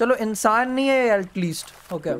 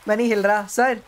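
ordinary talk

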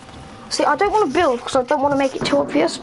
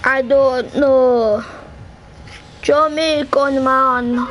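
slow, drawn-out mock Jamaican accent; much slower than usual. Player shows off accents to friends, mock Jamaican accent. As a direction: put on a leisurely Jamaican accent. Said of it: "I'm so good at accents".

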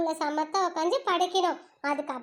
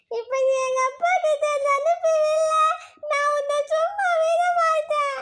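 put-on high, slow, sulky child threat; bratty kid threat; 7 semitones higher than usual. Child warns teacher her dad will hit her. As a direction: threaten like a cheeky little girl.

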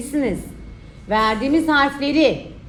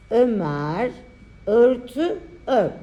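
dictating; slower than usual. Shown as a demonstration. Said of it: "dikte çalışması".

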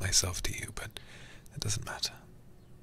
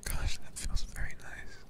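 contented. Acted. Enjoying having hair stroked.

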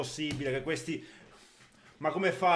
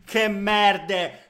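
loud, spat-out insult; explosive italian cursing; 4 semitones higher, 9 dB louder than usual. Real, not acted. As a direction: curse the other team. Cursing the opponents.

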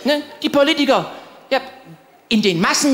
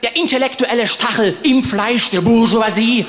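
pompous proclamation; slower than usual. Retold or imitated. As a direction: declaim it like a self-styled revolutionary. Window proclamation continues. (pathetisch deklamierend, langsam und lauter)

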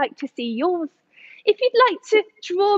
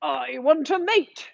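mild toadfish wail; crying out toadfish. Acted. Toadfish answering the dolphin, mildly crying out. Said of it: "cried the toadfish".

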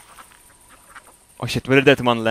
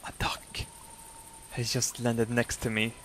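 much softer, starting in a whisper; hushed nature commentary; 2 semitones lower, 11 dB quieter than usual. Pretend. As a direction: murmur so the duck won't fly off. Mock nature commentary beside a duck.

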